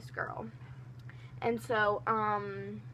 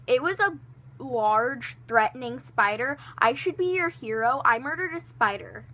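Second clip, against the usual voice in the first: indignant defense; 2 semitones higher, 5 dB louder than usual. Retold or imitated. Defending herself to the kid.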